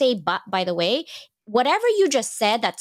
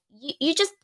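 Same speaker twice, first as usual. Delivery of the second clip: a sudden higher, exasperated "you, you just"; exasperated snap; 7 semitones higher than usual. Retold or imitated. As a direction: cut someone off in mock annoyance. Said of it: "I'm like".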